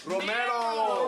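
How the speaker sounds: Romero said slow and clear; correcting his name. Real, not acted. Comic correcting the host on his name, slow and clear. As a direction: spell out Romero slowly. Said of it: "Let's hear it again for Will Romano".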